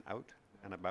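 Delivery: "out and about" with wide flat OW; exaggerated American vowels. Shown as a demonstration. Interviewer attempting American for the coach, flat "out and about". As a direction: try "out and about" broad and American. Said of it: "an exaggerated American".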